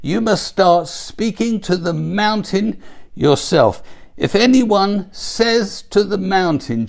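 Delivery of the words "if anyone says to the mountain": "anyone" stressed and higher, as an emphatic quote. Retold or imitated. Preacher quoting Jesus on the mountain, emphatic. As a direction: quote it with firm weight on "anyone". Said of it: "I'm emphatic about this".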